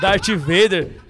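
drawn-out Darth Vader through laughter; laughing, slow answer. Real, not acted. Teasing a friend, laughing slowly. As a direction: let the laugh stretch the name. Friends joking about a doll.

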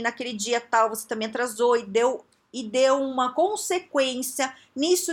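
slow, measured delivery; deliberate, point-by-point feedback; correct factual feedback. Shown as a demonstration. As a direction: lay out each fact deliberately. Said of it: "qual que é o jeito de dar feedback, o jeito correto?".

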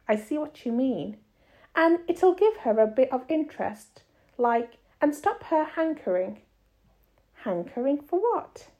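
expressive read-aloud with lightly voiced dialogue; story narration. A narrator's reading. Reader telling a story for children to follow, measured narration.

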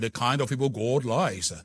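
a hint of a posh Burkina Faso accent. Shown as a demonstration. Preacher showing off his words, lightly posh Burkina Faso accent. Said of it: "A posh accent from Burkina Faso".

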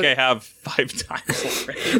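breathy whisper, a laugh slipping through; whispered aside. Real, not acted. A co-host whispering an aside about rewatching, whispered. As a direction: whisper it as a joking confession. Aside while friend talks.

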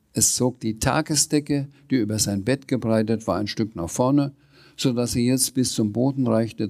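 lively read-aloud with lightly voiced dialogue; story narration. A narrator's reading. Reader telling of the Sams and the dragon, lively storytelling. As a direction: read a children's story with animated quotes. Reads a children's book aloud.

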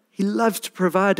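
bright rising restatement. Shown as a demonstration. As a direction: lift it up with joy.

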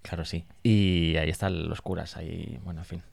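talking with a mouth full of food; words pushed past a mouthful. Real, not acted. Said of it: "es que tengo la boca llena".

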